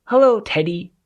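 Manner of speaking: a friendly woodland deer says hello; gentle deer voice. Acted.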